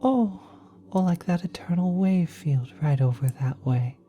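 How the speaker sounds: brighter, eager half-voiced wonder; delighted pointing out. Cosmic being showing the baby its new home, excited. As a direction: point out the sights with childlike glee.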